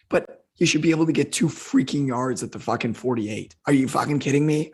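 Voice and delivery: hoarse, strained rant. Real, not acted. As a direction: push through a hoarse voice. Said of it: "sorry for swearing in a hoarse vo".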